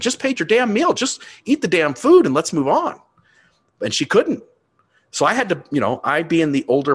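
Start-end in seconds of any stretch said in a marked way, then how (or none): 0.0-3.0 much higher, fed-up mock rant; irritated outburst. Father retelling telling daughter to just eat, fed up. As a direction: let the frustration spill over. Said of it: "I'm starting to get irritated".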